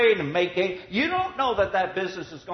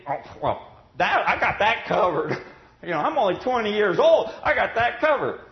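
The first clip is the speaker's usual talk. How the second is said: mock carefree youth; 4 semitones higher, 5 dB louder than usual. Voicing a cocky young man.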